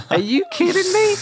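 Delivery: high, squeaky disbelief; a yelped are you kidding me; incredulous. Retold or imitated. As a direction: shoot up in mock outrage at the sat nav. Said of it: "And I'm just like".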